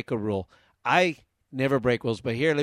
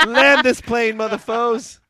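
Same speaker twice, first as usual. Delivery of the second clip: loud, higher hijacker yell; frantic shouting hostage taker; 7 semitones higher, 9 dB louder, slower than usual. Pretend. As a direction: roar it at the pilots. Acting out hijacker on plane.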